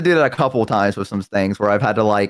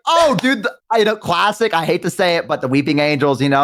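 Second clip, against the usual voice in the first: bluffing fan; 2 semitones higher than usual. Retold or imitated. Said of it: "And I was like".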